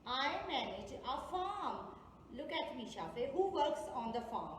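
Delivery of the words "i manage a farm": slow, careful repeat of the riddle; slowed down for young learners. Shown as a demonstration. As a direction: say it again slowly so kids follow. Teacher repeats riddle slowly.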